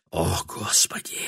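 hushed, breathless whisper; man whispering in despair; whispered exclamation. A narrator's reading. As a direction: exhale it in a whisper.

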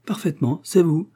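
high, eager cry of recognition; young wife delighted to recognize the famous inventor; excited recognition. Acted. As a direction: blurt it out, thrilled to place him.

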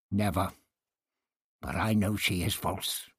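understated sharp retort; snapped. Acted. Priest rejecting Outlock's view, curt snap. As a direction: snap it back. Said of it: "he snapped".

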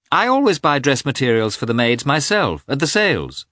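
a hint of a chatty old lady; old princess. A narrator's reading. Princess voiced in reading.

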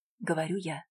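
ordinary delivery

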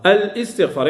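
"الاستغفار" split as al-istighfar, with a glottal stop; hamza wrongly sounded. Shown as a demonstration. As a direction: say "الاستغفار" with an audible hamza after al. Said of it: "صحيح الشيء اللي قلت أنا؟". («الاستغفار» بقطع الهمزة: أَلْ إِستغفار)

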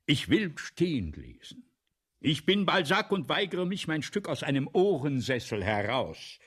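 proud refusal. Acted. Balzac refusing the armchair, proud and insistent. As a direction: stand on your dignity. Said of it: "sage ich".

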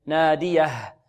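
"ناديه" ending in an audible breath of h; clear final h. Shown as a demonstration. Teacher stresses clarifying the letter, "ناديه" with clear final h. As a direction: make the last h of "ناديه" distinct. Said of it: "إيضاح الهاء".

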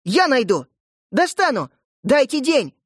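put-on frantic girl begging; desperate.

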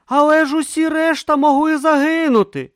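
high, loud accusing yell. A narrator's reading. Brutha yelling at Om in the sea, accusing. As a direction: throw his words back at him.

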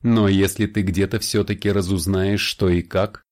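smirking vampire. Acted. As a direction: say it with a knowing smirk. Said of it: "с усмешкой сказал вампир". (с усмешкой)

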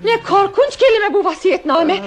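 high-pitched wail of dismay; theatrical horror. Acted. Wife hearing of her husband's will, horrified wailing. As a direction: cry out, overcome by a dreadful word.

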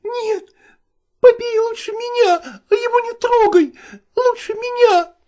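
a mother begging to be hit instead; pleading mother. Acted. Mother begging her husband to beat her instead, high and crying. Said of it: "говорила она".

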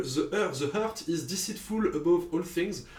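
English with a French accent; slow, careful English, French-accented. Real, not acted. Podcaster reading an English film title aloud, French accent. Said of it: "Désolé pour mon accent".

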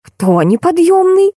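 high, slow indignant question; ominous intonation. A narrator's reading. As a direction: stretch it out like an offended boss. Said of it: "с нехорошей интонацией произнесла". (протяжно, высоко, с угрозой)

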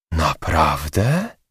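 slow, drawn-out astonished question; gasped drawn-out question; surprised exclaim. Acted. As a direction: stretch it out in disbelief. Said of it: "zawołała recepcjonistka".

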